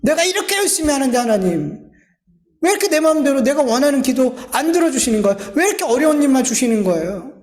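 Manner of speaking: lightly dramatized aggrieved protest; resentful complaint. Acted. Hard-working believer asking God why prayers go unanswered, mildly resentful complaint. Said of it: "원망한단 말이에요".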